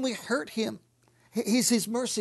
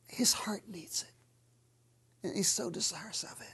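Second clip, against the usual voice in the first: slow then quick whisper, far softer; intimate whisper; 2 semitones lower, 10 dB quieter than usual. Real, not acted. Preacher confiding to congregation, hushed whisper. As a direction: confide it under your breath. Intimate aside about God's heart.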